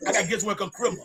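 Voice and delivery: "criminal" for Christmas, squashed into "crimmuh"; "criminal" with the ending swallowed; imitated Atlanta pronunciation. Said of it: "They say criminal".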